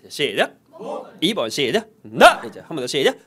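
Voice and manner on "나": very loud, short burst on "나"; taekwondo yell. Shown as a demonstration. Teacher drilling syllable two with the class, taekwondo yell. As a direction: punch out "나" like a martial arts kihap. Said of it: "태권도 기합 하듯이".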